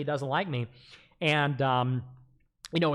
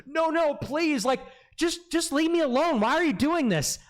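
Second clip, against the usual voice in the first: mock begging; 11 semitones higher than usual. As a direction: imitate him pleading, pitched way up. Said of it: "He's like".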